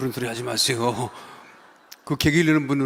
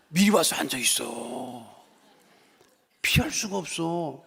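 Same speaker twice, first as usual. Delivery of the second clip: ordinary delivery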